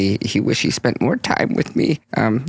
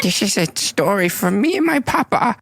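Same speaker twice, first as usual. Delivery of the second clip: put-on childlike pleading; 10 semitones higher than usual. Smoggle speaks to goblin.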